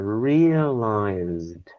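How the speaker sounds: slow, drawn-out "realized". Showing how the word should go, saying realized as drawn-out word realized. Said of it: "It's a slow word, right? You need to stretch that".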